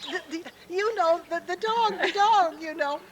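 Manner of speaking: grasping desperately for the dog's name; high flustered retold panic; frantic. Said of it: "I was getting more and more frantic".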